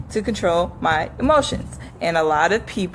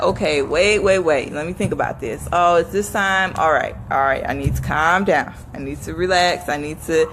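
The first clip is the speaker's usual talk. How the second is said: self-calming; 6 semitones lower than usual. Retold or imitated. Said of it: "be like".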